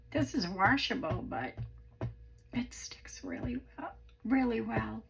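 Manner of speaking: croaky, worn-out voice. Real, not acted. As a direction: speak through a croaky throat. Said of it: "I am so sorry for my voice".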